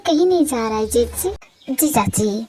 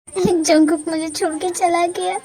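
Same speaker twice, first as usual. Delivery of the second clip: slow, drawn-out wail of loss; slowly wailing that he left her; sobbing lament; slower than usual. Acted. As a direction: moan it out like a broken heart.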